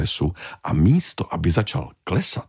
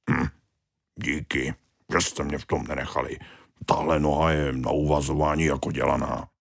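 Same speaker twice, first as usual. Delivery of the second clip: softer, sheepish thanks; apologetic Tony; 3 semitones lower, 4 dB quieter than usual. Acted. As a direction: ease off, a bit embarrassed. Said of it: "Omluvně". (tišší omluvný Tony)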